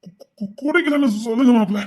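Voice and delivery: put-on choked stammer of a drunk; stammering plea. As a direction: plead weakly, stumbling on words. Drunk pleading to brother-in-law.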